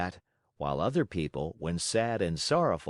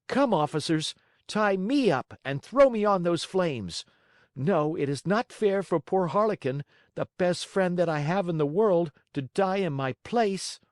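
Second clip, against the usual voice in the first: put-on much higher and louder, a brave boy's voice; piercing brave cry; 9 semitones higher, 4 dB louder than usual. A narrator's reading. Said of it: "said in a piercing voice".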